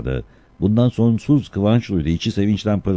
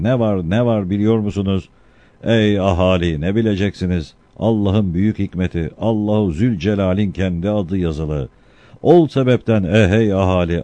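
town crier. Acted. Crier calls out to the crowd.

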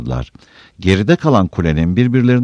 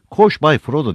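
high, urgent call to run; raised-voice command to flee; urgent cry; 10 semitones higher, 4 dB louder than usual. A narrator's reading. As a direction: cry out a warning, pitch leaping up. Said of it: "diye haykırdı".

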